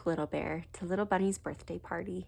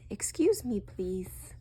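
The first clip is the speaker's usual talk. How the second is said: whispered; 3 semitones higher, slower than usual. Acted. Mouse whispering in Daddy Bear's ear, hushed whisper. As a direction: lean in and whisper it like a tiny mouse. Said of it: "Mouse whispered in Daddy Bear's ear".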